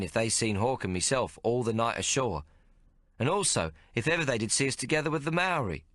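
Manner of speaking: put-on a cocky young whaler answering back; young sailor lad. Tomo voice in dialogue.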